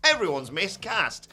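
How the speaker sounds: Vince McMahon voice. Retold or imitated. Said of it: "Vince McMahon has looked at his roster and gone".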